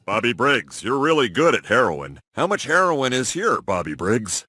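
unnatural, over-deliberate questioning; stilted wire talk. Acted. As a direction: speak pointedly for a hidden microphone. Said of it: "Why are you talking like that?".

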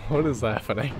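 laughing disbelief. Real, not acted. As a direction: giggle at the chaos.

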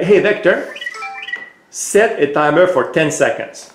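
voice command. Real, not acted. Owner gives his robot a clear spoken command. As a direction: call the robot's name clearly, then command.

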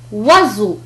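"وزو" with voiced z between vowels. Shown as a demonstration. Teacher giving another example, z in "وزو". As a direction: say "وزو" with a buzzing middle z. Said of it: "الحالة الخاصة هو عندما ينطق كحرف".

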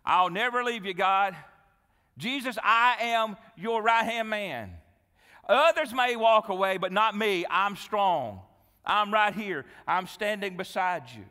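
loud, emphatic pledge of loyalty; bold boast. Acted. Peter vowing loyalty to Jesus, loud and self-assured. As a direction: declare it with swaggering certainty.

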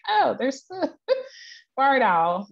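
high, laughing excited gasp; excited squeal. Retold or imitated. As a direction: squeal with surprise at the owl. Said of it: "I'm like".

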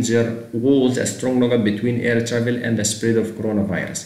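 slow, careful English read; slow reading aloud. Shown as a demonstration. Teacher reading the exam sentence to students slowly. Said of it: "السؤال تلاتة وعشرين".

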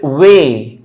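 वे held as the stressed syllable; stressed, drawn-out वे. Shown as a demonstration. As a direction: lean on वे with a full vowel. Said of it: "को stress दिया गया".

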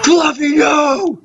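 high-pitched mock wail; mock alarmed cry. Calling after Fluffy falling off the roof, mock alarmed cry. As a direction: cry out in pretend horror.

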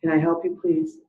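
lightly voiced drive-through order taker; работник окна заказов. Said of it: "it goes something like this".

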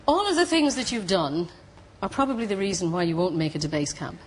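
mock Cork accent on a mountaineer's words. Mountaineer telling a hopeful climber she won't make it, Cork accent. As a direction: put on a rough Cork accent. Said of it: "I'm gonna do a cork accent now".

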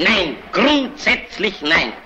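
slow, stressed, final refusal; emphatic refusal. Acted. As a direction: refuse on principle, drawing it out. Refusing the colleague's plea. (langsam und kategorisch ablehnend)

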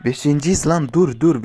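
excited callout; excited exclaim. Real, not acted. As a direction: announce the placing with a jolt. Placing fifth, reacting.

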